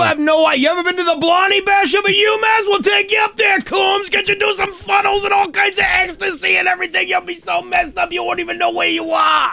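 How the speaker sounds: hammed-up Dorchester guy yelling; Boston bro. Keeps up the Boston bro bit.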